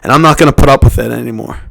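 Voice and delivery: loud, defiant shout out the window; mock scream. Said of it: "you gotta scream".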